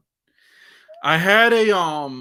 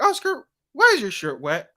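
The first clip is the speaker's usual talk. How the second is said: aggressive teacher; 8 semitones higher, 3 dB louder than usual. Retold or imitated. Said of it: "that aggressive tone that she".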